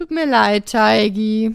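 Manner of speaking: put-on tipsy, drunk baby-talk voice. Narrator talking to the dough, in a drunk baby voice. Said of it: "sagte ich in besoffener Babystimme".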